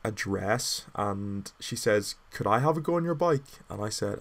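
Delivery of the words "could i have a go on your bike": put-on drunk girl. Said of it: "she kinda stumbles up to me".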